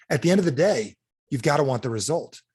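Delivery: usual speaking voice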